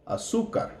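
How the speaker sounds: Azúcar whispered, no voice; whispered echo. Shown as a demonstration. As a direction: breathe Azúcar as a soft whisper. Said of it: "notice the U has the accent".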